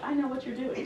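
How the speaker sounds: a knowing line broken up by laughter; laughing knowingly. Retold or imitated. Anna laughing at her supervisor's trick, words through laughter. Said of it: "I'm like".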